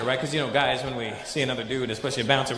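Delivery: ordinary delivery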